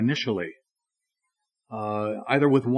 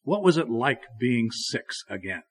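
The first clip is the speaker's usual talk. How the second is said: loving; slower than usual. Acted. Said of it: "lovingly said".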